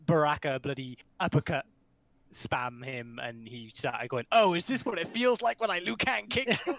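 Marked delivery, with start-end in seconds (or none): 4.3-6.8 lightly voiced martial arts villain, higher; a hint of a dubbed kung fu foe; bad movie dubbing. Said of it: "describing an old style martial arts film".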